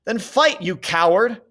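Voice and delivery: high furious yell; mad scream. A narrator's reading. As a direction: scream it like a madman. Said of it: "Peter screamed like a madman".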